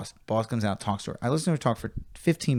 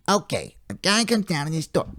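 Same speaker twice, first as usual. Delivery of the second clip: Buddy Hackett voice; 6 semitones higher than usual. Retold or imitated. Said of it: "like hearing Buddy Hackett tell a joke".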